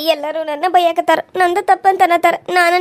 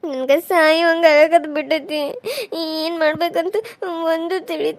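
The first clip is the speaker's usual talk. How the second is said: slow crying; slower than usual. Acted. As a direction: drag the words out through tears. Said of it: "ನೀ ಹಿಂಗೆ ಅಳಾಕತ್ರ".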